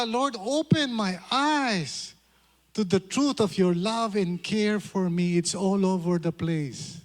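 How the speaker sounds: slow, earnest plea; sample prayer. Shown as a demonstration. Pastor modelling a prayer for the congregation, slow and earnest. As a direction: pray it slowly, eyes opening. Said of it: "Pray ka".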